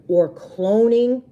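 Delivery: slow, drawn-out amazed cloning; wide-eyed child saying cloning; awed. Acted. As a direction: savor the word with wonder. Kid drawn-out amazed word.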